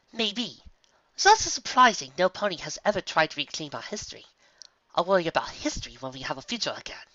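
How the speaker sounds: a hint of a weary young mare; lightly voiced pony. Character dialogue in read story.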